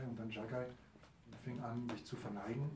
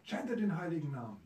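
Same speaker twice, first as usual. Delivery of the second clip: loud call; 7 semitones higher, 9 dB louder than usual. Acted. Preacher calls to the drunkards.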